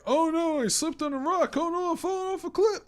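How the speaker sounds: high, loud cartoon panic; hammed-up yelp of falling; mock panicked voice. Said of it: "It's like".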